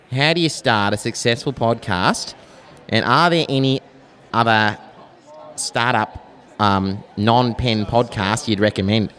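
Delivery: a mild, slightly nasal Australian Bogan accent. Shown as a demonstration. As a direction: read the listener's question in a light broad-Aussie Bogan voice. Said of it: "That was, like, upper middle Bogan".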